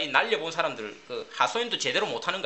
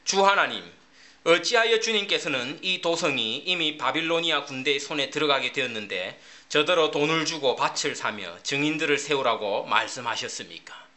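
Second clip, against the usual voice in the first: reading scripture aloud; 3 semitones lower than usual. Shown as a demonstration. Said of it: "새번역 성경으로 이십오 절을 읽어드릴게요".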